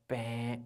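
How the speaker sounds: low, soft imitated buzzer; wrong-answer buzzer. Shown as a demonstration.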